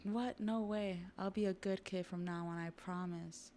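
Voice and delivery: mock panic, starting high then easing; lightly acted frightened kid begging; panicked pleading. Kid on the ledge begging to be saved, mildly panicked plea.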